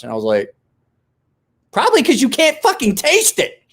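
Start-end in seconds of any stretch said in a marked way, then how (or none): 1.7-3.6 sarcastic jab. Retold or imitated. Punchline retort to kid.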